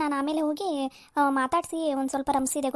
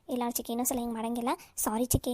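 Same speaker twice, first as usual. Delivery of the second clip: soft, low sorry; subdued promise to behave; meek apology; 4 semitones lower, 6 dB quieter than usual. Acted. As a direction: give in quietly to a scolding. Niece apologises to scolding aunt.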